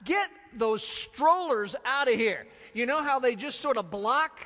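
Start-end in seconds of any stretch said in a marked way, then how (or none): 0.0-2.5 laughing, higher and louder; mock-exasperated disciples. Disciples shooing parents with strollers, hammed-up. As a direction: shoo the strollers away in mock panic. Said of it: "they're going".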